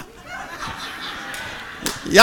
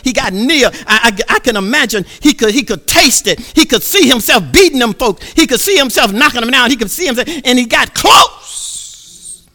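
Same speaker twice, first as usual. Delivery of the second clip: rising preacher's chant; stirring sermon build; preaching; 3 semitones higher than usual. Acted.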